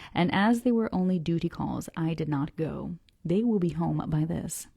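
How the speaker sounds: measured, deliberate reading aloud; story narration. A narrator's reading. Reader reads the harbor description to listeners, story narration. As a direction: read it out carefully, phrase by phrase.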